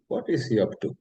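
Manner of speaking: mock the family wondering aloud; agitated family. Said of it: "a little more agitated".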